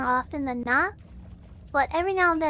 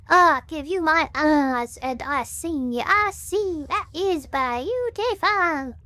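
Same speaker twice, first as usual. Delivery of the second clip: Southern Baptist preacher; 2 semitones higher, 4 dB louder, much slower than usual. Shown as a demonstration. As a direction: preach it like a wound-up Baptist zealot. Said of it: "like, preacher voice".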